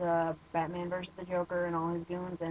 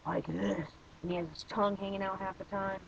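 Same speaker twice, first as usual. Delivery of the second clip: Christian Bale's Batman voice; 4 dB quieter than usual. Retold or imitated. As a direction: drag it out in a mock Batman voice. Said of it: "I'm gonna actually do the talk".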